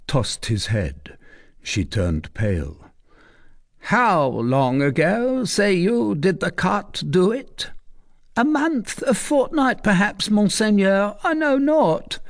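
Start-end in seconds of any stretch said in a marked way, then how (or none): 3.8-7.7 much higher, slow question; probing commander. Acted. Tristan questioning the recluse, probing. 8.4-12.2 much higher, rushed, unsure answer; flustered old woman. Acted. Recluse cornered by Tristan, flustered.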